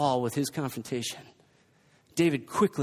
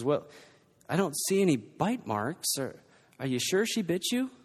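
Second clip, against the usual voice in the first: calm mother; 4 dB quieter than usual. Retold or imitated. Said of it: "Kendra calmly assesses".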